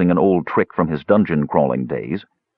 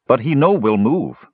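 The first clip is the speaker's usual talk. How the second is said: simple dwarf voice; 5 semitones higher than usual. A narrator's reading. Numskull, broken speech.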